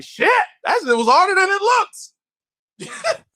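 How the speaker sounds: high, slow, drawn-out admission; rueful realisation. Retold or imitated. Admitting radio beat him, high and slow. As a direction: stretch it out, defeated. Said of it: "I was like".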